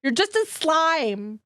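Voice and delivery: laughing while telling him off; laughing scold. Real, not acted. Streamer scolding her slime Gumu through laughter.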